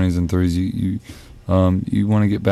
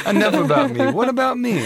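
mock self-centred; 13 semitones higher than usual. Mocking reply, high.

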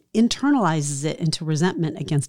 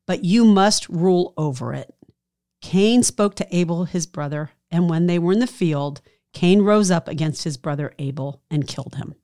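scripture reading. Acted. Reads Genesis four aloud.

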